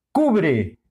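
cubre with weight on the first syllable, cu-; stress on CU. Shown as a demonstration. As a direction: lean on CU in cubre. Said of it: "acento en Q". (cubre, con acento marcado en cu)

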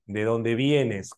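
slow, careful demo phrasing; slow model sentence. Shown as a demonstration. Teacher modeling the sentence for Jocelyn, slowly. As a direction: spell out the clause at half speed. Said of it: "la oración tendría que seguir de esta manera".

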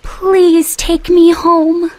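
high, slow pleading; begging. A narrator's reading. Thumbelina begging Croaky to take her home, pleading. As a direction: plead in a tiny girl's high voice. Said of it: "begged Thumbelina".

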